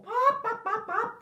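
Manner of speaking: high playful pop noises; high popping sounds. Acted. Sound effect for goose.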